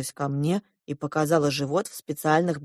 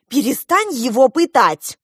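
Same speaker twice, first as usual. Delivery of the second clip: loud, higher, slow protest; crying out; 6 semitones higher, 7 dB louder than usual. A narrator's reading. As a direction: shout to make her stop. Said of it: "крикнула Диана". (громко, возмущённо выкрикивая)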